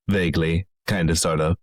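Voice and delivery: a hint of a Finnish accent on "kind of, sort of"; lightly Finnish lilt. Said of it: "I'm doing a Finnish accent".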